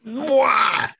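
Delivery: loud high smacking kiss; chef's kiss. Real, not acted. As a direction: blow a big kiss of approval.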